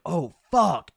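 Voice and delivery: mock panicked outburst, fuck drawn loud; retold panic with some force; freaking out. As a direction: imitate a friend starting to freak out. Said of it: "Sam starts freaking out".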